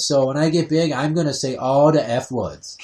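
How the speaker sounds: a hint of a proud kid announcing it; little girl voice. Dad quoting his three-year-old to grandma, lightly voiced chirpy child. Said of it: "retelling daughter's words at grandma's".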